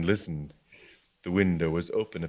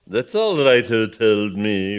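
defiant retort; 8 dB louder, slower than usual. Acted. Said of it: "rejoined the bishop".

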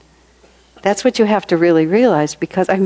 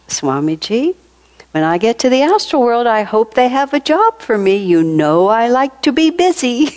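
imitating a childlike voice; 7 semitones higher than usual. Dying friend to her teacher on the phone, lightly childlike. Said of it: "she had kind of a childlike way of speaking".

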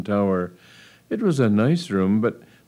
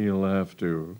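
grim; 2 semitones lower, 6 dB quieter than usual. Acted. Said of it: "said the Earl grimly".

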